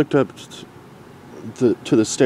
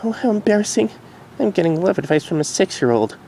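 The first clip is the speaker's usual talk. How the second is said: higher, wry self-mocking; embarrassed; 10 semitones higher than usual. Derpy embarrassed about advice from her filly. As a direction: laugh at yourself. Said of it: "thought out loud".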